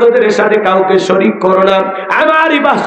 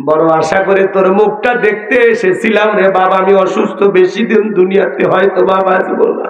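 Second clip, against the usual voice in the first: tearful lament; 3 semitones higher than usual. Acted. Grieving mother pleading with her son, tearful chanting lament. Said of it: "কাঁদে আর বলে".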